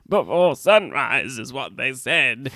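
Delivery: slow, laboured line; acting injured. Shown as a demonstration. Wounded Willie reports to Buffy, acting injured. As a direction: drag it out as if wounded. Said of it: "I have to be more injured".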